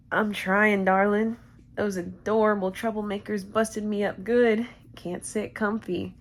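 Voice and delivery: lightly voiced cowboy with a little twang; a hint of cowboy twang; Boot Hill. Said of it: "my best Boot Hill impression".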